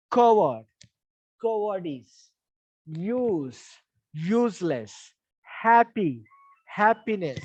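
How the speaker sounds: teacher drilling word pairs for stress; first-syllable stress drill. Shown as a demonstration. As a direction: model each pair, base word punched, derived word falling. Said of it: "Still the stress will be on the first syllable".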